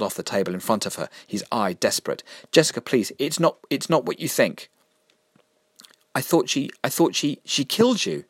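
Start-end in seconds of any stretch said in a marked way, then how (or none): 2.5-4.7 pleading. Acted. Vinegar pleads desperately. 6.1-8.2 stammering, rising higher in shock. Acted. Jessica stunned to see Mister Vinegar alive, stammering.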